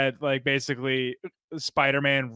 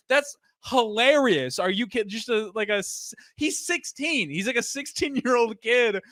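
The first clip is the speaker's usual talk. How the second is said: amused high disbelief; 9 semitones higher than usual. Retold or imitated. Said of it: "I'm like".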